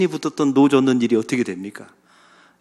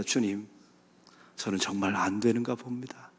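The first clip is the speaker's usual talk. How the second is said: broken confession. Acted. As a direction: confess weakness at the end of strength.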